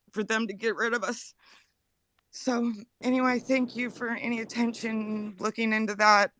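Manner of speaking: holding back tears while pleading; emotional, near tears. Real, not acted. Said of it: "I'm sorry for being emotional".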